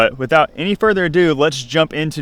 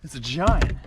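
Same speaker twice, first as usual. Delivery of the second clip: excited cheering; 4 semitones higher, 7 dB quieter, slower than usual. Real, not acted. Landing a big fish.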